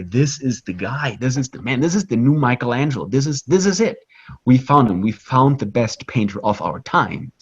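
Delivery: mildly excited retold acclaim, pitch lifting; crowd going crazy. Crowds at the church hailing the painter, mildly excited. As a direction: lightly act out a crowd's amazement. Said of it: "they just went crazy. They went nuts".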